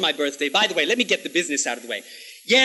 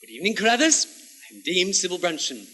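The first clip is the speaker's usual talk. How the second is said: crisp royal command; 4 semitones lower, 4 dB quieter, faster than usual. Shown as a demonstration. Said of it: "you must walk in and say".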